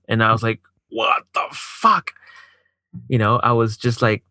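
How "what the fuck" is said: high, stretched-out disbelief; incredulous outburst. Retold or imitated. Man retelling his shock at her finding somebody else, incredulous. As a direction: draw each word out, voice leaping up incredulously.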